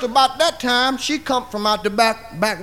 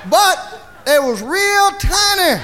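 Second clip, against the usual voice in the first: excited punchline; 6 semitones higher than usual. Retold or imitated. Telling friends the healed feet were tiny, excited punchline. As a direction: land the joke on tiny feet.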